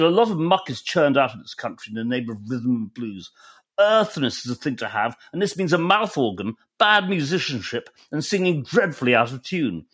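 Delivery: put-on lightly posh, well-spoken English accent; fairly posh accent. Reading a withering blues singer's interview aloud, fairly posh accent. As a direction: read it out in a mildly posh accent. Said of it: "in a fairly posh accent".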